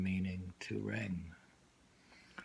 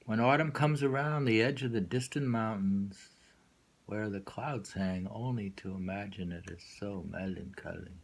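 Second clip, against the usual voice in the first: poem reading. Acted. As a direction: read the verse and let it trail off. Rereads the same poem.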